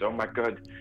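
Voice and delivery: hammed-up, flirty French accent; bad French accent. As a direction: gush in a fake French accent, laying on the charm. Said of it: "a bad French accent allowed you".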